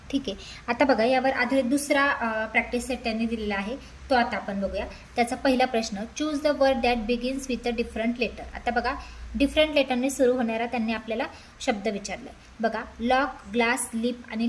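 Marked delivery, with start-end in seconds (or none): 6.0-8.5 each English word spaced out very slowly; slow dictation reading. Shown as a demonstration. Teacher reading the question to students, very slowly.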